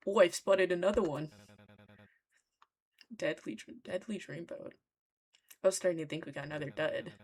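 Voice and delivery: hammed-up, amateur British character voice; loosely faked British accent; bad British accent. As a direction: attempt a rough British accent. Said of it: "a really bad British accent for him".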